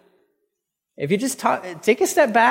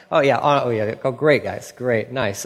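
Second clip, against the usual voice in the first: sarcastic approval; 4 semitones lower than usual. Retold or imitated. Father's imagined sarcastic reply to sons.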